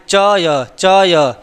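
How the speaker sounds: चय said alone and held so the अय is heard; sounding out syllables. Shown as a demonstration. Teacher isolating चय for students, held syllable. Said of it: "अय आ रहा है कि नहीं".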